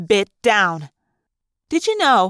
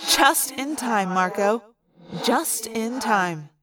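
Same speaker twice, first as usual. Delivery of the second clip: slow, softer relief; relieved, slow; 4 dB quieter, slower than usual. Acted. Rachel greeting Marco in pained relief, slow and soft. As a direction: let the relief out slowly.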